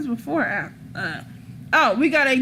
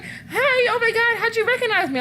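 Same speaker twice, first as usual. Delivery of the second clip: imitating a giggly surprise; 11 semitones higher, faster than usual. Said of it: "And she's like".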